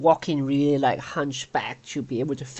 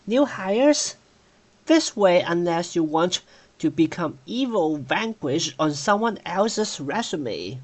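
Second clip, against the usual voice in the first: chipmunk voice. Acted. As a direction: squeak it out like a chipmunk. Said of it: "especially with the chipmunk voice".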